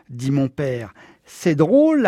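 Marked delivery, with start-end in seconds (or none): 1.3-2.1 sneering. A narrator's reading. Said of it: "ricana Nation".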